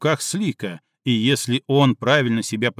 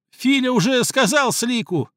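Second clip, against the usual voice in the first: high, cracking wail of fear and pain; terrified dog-man wailing at Слик through tears; voice breaking with fear; 10 semitones higher than usual. A narrator's reading. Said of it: "срывающимся от страха и боли голосом завопил".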